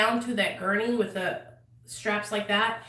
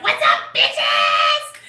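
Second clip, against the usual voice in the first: slow, low, loud rowdy hello; loud greeting; 12 semitones lower, 9 dB louder, much slower than usual. Retold or imitated. Misty running out the door, loud slow greeting. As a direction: boom it out like a party welcome.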